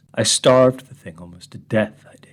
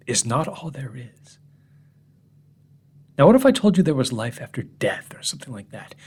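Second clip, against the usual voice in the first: whisper. Acted. Hushed confiding aside.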